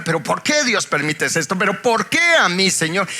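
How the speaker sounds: protesta a Dios imitada, subiendo en tono y volumen; quéjate como quien reclama, cada vez más fuerte; queja molesta. Retold or imitated. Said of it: "uno se molesta". (reclamo molesto)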